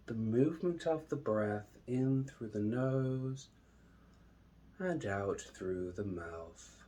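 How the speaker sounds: slow, drawn-out meditation voice with long pauses; unhurried, measured calm, lingering on each phrase; guided meditation. Acted. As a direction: guide them calmly into the breath.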